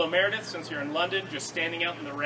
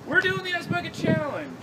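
excited shout; 12 semitones higher than usual. Real, not acted. Announcing the challenge to camera.

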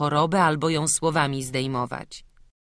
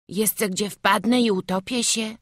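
put-on higher boy voice with a whispered middle; frightened little boy; 6 semitones higher than usual. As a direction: worry at the dark river. Boy alone at night river.

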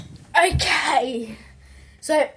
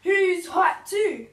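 excited; 6 semitones higher, much slower than usual. Real, not acted. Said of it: "I'm so freaking hyped".

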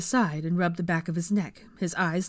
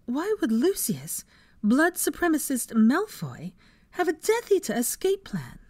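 horrified; 9 semitones higher than usual. A narrator's reading. Hermione questioning the men in horror, horrified. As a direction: spell it out in rising disbelief. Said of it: "looked at them in horror".

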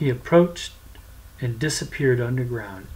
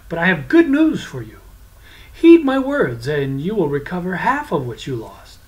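sly devil; 2 semitones higher, 5 dB louder than usual. Acted. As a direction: tempt him like a smooth swindler. Devil tempts the prince.

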